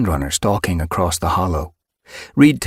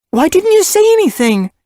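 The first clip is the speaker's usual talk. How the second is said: high, loud frustrated demand; angry; 8 dB louder than usual. Acted. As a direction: scold her in frustration. Mother scolds.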